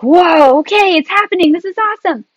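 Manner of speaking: high, wowed exclamation; thrilled, high-pitched retelling; excited quote. Retold or imitated. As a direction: marvel aloud as it starts. Retelling her excitement in labour.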